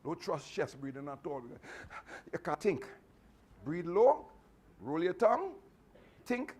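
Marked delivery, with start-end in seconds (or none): 3.6-6.6 firm instruction. Shown as a demonstration. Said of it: "then speak slowly".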